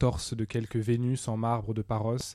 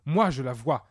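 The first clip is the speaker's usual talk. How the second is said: louder, insistent declaration; moderately raised, emphatic protest; defiant cry; 2 semitones higher, 5 dB louder than usual. Acted. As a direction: cry it out in defiance, stressing Moi. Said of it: "cria-t-il".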